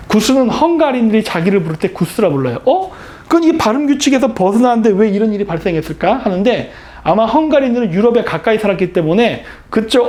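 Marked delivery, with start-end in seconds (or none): none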